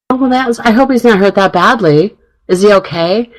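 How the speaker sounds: nice and caring. Retold or imitated. Woman retelling her reply about an injured player, nice and caring. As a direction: retell trying to sound sympathetic. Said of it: "trying to sound nice and caring".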